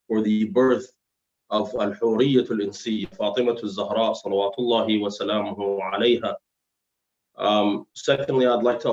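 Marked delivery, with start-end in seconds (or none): 1.5-6.3 slightly slurred, heavy tongue; slurring from dental trouble. Real, not acted. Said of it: "if it sounds like I'm slurring or I have a heavy tongue".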